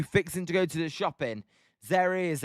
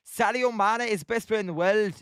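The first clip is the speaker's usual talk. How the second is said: higher-pitched attempt at Scouse; Scouse accent; 4 semitones higher than usual. Streamer tries Scouse for Wilson, amateur Scouse accent. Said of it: "to do a Scouse accent".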